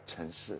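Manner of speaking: "城市" with no back G in "城"; "城市" softly said as "chen shi"; accented demo without G. Shown as a demonstration. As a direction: leave the G off "城市". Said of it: "without a G in the back".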